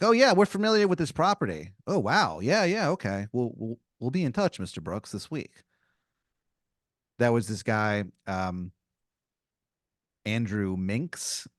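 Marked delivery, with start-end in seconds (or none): 0.0-5.6 lightly voiced eager realtor, higher; friendly salesman voice, a little higher; a hint of a keen real estate agent; cheery realtor. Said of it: "They're like".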